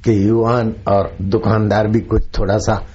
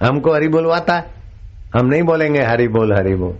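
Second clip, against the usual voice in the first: नकली शराबी; 4 semitones higher, faster than usual. Retold or imitated. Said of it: "और ये पिए हुए बोलते हैं".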